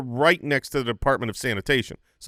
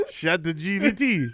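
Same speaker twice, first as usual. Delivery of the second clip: French accent; 3 semitones higher, slower than usual. Shown as a demonstration. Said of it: "Try it".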